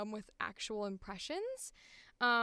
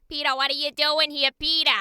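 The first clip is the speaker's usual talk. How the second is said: loud, raised-pitch cartoon wife calling out; Lois impression; 3 semitones higher, 10 dB louder than usual. Shown as a demonstration. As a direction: holler for your husband as Lois would. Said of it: "the woman from Peter Griffin".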